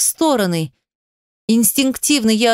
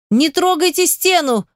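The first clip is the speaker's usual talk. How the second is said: shout; 7 semitones higher than usual. A narrator's reading. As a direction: yell at him to stop. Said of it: "крикнула я". (резкий громкий крик, высоко)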